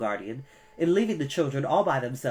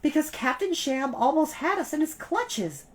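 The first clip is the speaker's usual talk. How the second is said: higher urgent cry; cried out; 13 semitones higher than usual. A narrator's reading. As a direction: cry out in alarm. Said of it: "Violet cried".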